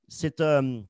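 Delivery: speaking with a dry throat. Real, not acted. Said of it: "j'ai la gorge sèche".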